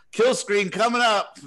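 high, loud announcing shout; imitated yell. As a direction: call it out like Keith across an arcade. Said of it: "he yells out".

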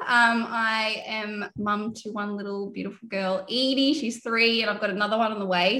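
slightly out of breath, pregnant. Real, not acted. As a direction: talk while out of breath. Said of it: "So I'm very out of breath".

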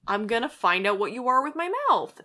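lightly voiced hungry shark; menacing shark. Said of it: "this is my shark impression".

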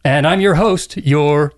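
slow, drawn-out spooky-host announcement; announcer voice. Acted. Host introducing himself as ghost host, announcer voice. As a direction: draw out the last two words ominously. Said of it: "doing that announcer voice".

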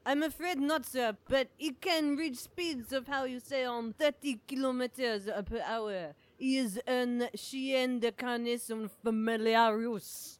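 put-on lightly French-accented jogger; a hint of a fake French accent; dubious French accent. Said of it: "dubiously accented stranger".

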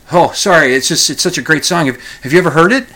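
mock excited Joe to the priest; eager gushing. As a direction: bubble over about the song.

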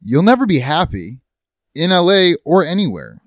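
angry. Acted. Acted quarrel, louder attack.

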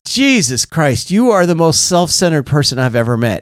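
retold exasperation. Sponsor on the phone before hanging up, exasperated verdict. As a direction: imitate a mildly exasperated sponsor.

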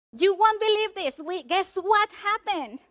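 high, excited storytelling aside to the listeners; attention-grabbing storyteller. Shown as a demonstration. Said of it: "you want to get the attention".

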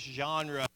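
genre spoken carefully, zhahn-ruh, with a nasal first vowel; French word genre. Shown as a demonstration. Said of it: "can kinda pronounce it right in my southern dialect".

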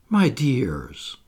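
meek, apologetic plea; humble. Acted. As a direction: soften and beg forgiveness.

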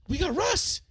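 high-pitched triumphant cry; celebrating fan's shout, retold; elated yell. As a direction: yell the good news, thrilled. Acts out celebrating the trade.

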